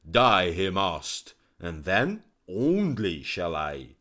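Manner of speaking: loud, forceful royal tirade; angry king. Acted. King telling his courtiers why the physician dies, loud and angry. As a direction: insist the traitor must die. King justifies killing, shouting.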